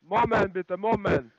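insistent, slightly shouted interjection; impatient, forceful plea to wait. Real, not acted. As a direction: call out to make them hold on. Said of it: "Sie sollen mich nicht so anschreien".

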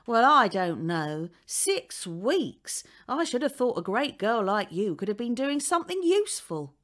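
put-on landlady nagging the girl on the steps; scolding landlady. A narrator's reading. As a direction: sneer at the lazy schoolgirl. Voices the landlady.

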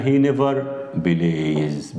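plays said with a clear final s; stressing the final s. Shown as a demonstration. Teacher showing the s stays after never, stressing plays. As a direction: lean on the s in plays. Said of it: "بتسيب الاس زي ما هي".

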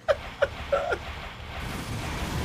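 breathy, high-pitched laugh. Real, not acted. Streamer amused at offering Gunt real beer, laughing. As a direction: let out a light, airy laugh.

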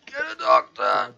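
high, loud, drawn-out call for help; mock urgent yell. Wounded king calls for help, high mock-urgent shout.

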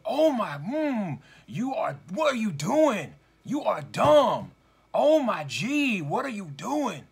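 high, loud mocking rant at a child; mock parent screaming. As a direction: imitate a furious parent berating a kid. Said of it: "a mother or father screaming at a child".

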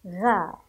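"غا" said as ghayn with a long open aa; open ghayn syllable. Shown as a demonstration. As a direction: sound out "غا" loud and drawn out. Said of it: "انظروا الغين مفتوحة". (غين مفتوحة ممدودة في "غا")

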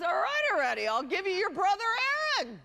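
weary Jewish uncle voice, played for laughs; bad Jewish accent. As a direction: put on a hammed-up Jewish accent, exasperated. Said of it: "Can't do my best Jewish accent".

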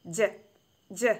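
"ജ" as a short phonic sound, not the letter name. Shown as a demonstration. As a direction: say "ജ" short and separate, twice. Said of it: "ജെ നമ്മൾ എങ്ങനെയാ വായിക്കേണ്ടത്".

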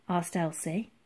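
plain reading voice

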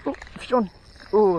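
high, loud cry of a hooked fish; real thrilled outburst; excited shout. Real, not acted. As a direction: yelp with sudden joy.

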